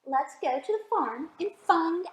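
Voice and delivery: put-on storybook read-aloud for little kids; gentle picture-book narration; reading to children.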